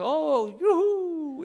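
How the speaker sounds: high, drawn-out mock whoop; mock celebration. Mock joy at bad news.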